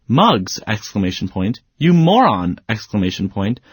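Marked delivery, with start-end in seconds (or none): 0.1-0.6 sharp, scolding call of the dog's name; upset. Shown as a demonstration. Owner scolding the dog Muggs, upset call. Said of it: "I might also be upset and say". 1.8-2.6 higher, raised scolding yell; upset yelling. Shown as a demonstration. Owner yelling at the dog for chewing shoes, upset. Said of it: "I might also be upset and say".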